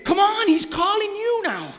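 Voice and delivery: high, loud call through a laugh. Retold or imitated. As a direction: beckon him with a laugh. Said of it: "they say".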